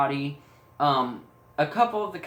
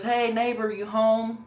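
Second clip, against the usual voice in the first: higher-pitched calling out into a house; mock yell; 5 semitones higher than usual. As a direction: imitate calling out for a neighbor, only mildly raised. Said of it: "She yells in there".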